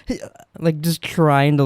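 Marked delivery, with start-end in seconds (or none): 0.1-0.3 soft, faltering attempts to speak; imitated hesitant false starts. Imitating a man working up courage to ask mom out, hesitant. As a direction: start and stop, losing nerve each time. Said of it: "build up the courage to ask her out".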